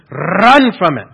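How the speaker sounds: bad Scottish accent, loud with rolled R's. Preacher quoting Alistair Begg in a loud bad Scottish accent. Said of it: "I can't do a very good Scottish accent".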